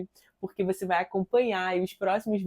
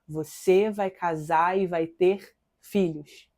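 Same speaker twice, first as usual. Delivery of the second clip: slow, measured, lightly voiced voice of God; 3 semitones lower, much slower than usual. God promising a young woman marriage, slow and confident. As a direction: retell God's promise slowly, with calm confidence. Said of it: "E eu ouvi mais uma vez".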